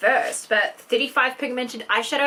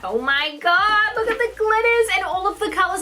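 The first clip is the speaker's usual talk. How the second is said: excited; 9 semitones higher, 3 dB louder than usual. Real, not acted. Gushing over glitter.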